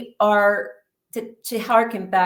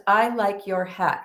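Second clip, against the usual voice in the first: no inflection. Retold or imitated. Woman remarking to the anesthesiologist, no inflection. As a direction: imitate an uninflected, matter-of-fact remark. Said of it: "with no inflection".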